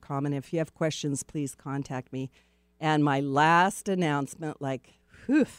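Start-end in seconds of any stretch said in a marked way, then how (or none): 2.8-5.5 breathless, catching her breath; winded, puffing between words. Real, not acted. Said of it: "I'm out of breath".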